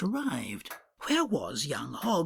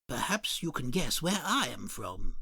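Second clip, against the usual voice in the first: low polite customer; 4 semitones lower than usual. Acted. Customer remarks on the shopkeeper's voice, low and prim.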